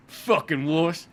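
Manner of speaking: scornful, slow start then loud contempt; hammed-up tough-guy taunt; gruff mechanic sneer. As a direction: sneer down at the kid like a fed-up old mechanic. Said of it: "He's like".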